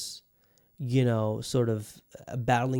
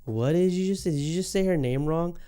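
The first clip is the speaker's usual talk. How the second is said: mock outraged fan; 6 semitones higher than usual. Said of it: "geeks who are just like".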